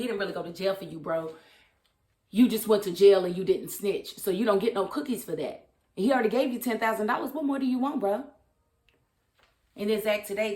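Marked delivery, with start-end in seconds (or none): 2.3-8.2 loud, exasperated talking to the screen; heated rant. Real, not acted. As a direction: scold him like he can hear you. Ranting at character on show.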